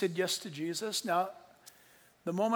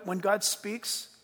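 when God speaks drawn out very slow; slowed emphasis; much slower than usual. Real, not acted. Preacher to congregation, dwelling slowly on God speaking.

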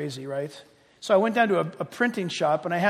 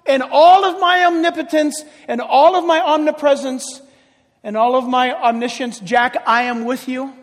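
voice of God; 3 semitones higher, 5 dB louder than usual. Shown as a demonstration. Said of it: "And God says".

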